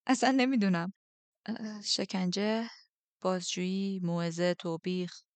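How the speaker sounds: relief spilling into nervous humour; giddy nervous list; nervous relieved. Acted. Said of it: "خندهٔ کوتاهی از دهنم گریخت".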